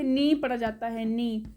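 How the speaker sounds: नी said as plain "nee", no k; long "ee" in नी, k left silent. Shown as a demonstration. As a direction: start नी straight on the n. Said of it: "इसलिए के silent है".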